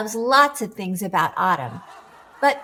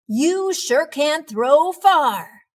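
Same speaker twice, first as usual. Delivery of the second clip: impressed; 5 semitones higher, 5 dB louder, slower than usual. Acted. Pete runs after ball.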